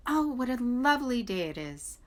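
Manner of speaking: chickadee voice. A narrator's reading. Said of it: "when the chickadees sang".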